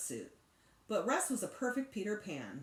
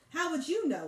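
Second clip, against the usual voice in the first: sharp, higher annoyed retort; 9 semitones higher, 6 dB louder than usual. A narrator's reading. Older sister snapping at Sheila, annoyed. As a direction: snap back at her sister.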